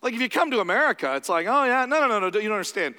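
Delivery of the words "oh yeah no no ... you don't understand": dismissive protest. Retold or imitated. Mocking Americans' dismissive reply.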